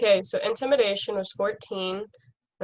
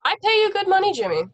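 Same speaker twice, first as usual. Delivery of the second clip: high-pitched mock reproach; mock indignant scolding; 10 semitones higher, 3 dB louder, much faster than usual. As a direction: scold the informant in playful outrage. Player scolds the bribed informant.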